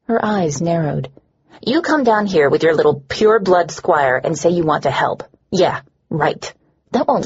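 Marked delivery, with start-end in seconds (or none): 5.5-6.5 scoffing whisper under the breath; a voiceless, sneering yeah right; sarcastic whisper. Acted. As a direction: breathe it out like a dismissive aside. Sarcastic aside during tense exchange.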